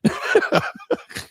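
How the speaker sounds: breathless squealing giggle; high squeaky laugh. Real, not acted. Co-host cracking up at the creeper bit, squeaky laugh. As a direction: let out a high wheezy giggle.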